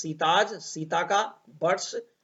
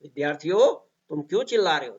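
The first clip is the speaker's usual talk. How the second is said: scolding tone. Shown as a demonstration. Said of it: "कहने का style भी थोड़ा सा इस तरह से होगा".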